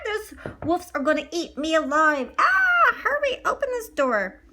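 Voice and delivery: high, frantic calls at the door; desperate pleading. Acted. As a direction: knock and beg to be let in, scared. Maurice begs at castle door.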